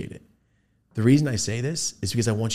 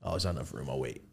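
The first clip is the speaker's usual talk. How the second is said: polite stranger; 10 semitones lower, 15 dB quieter, faster than usual. Retold or imitated. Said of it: "he stops, like".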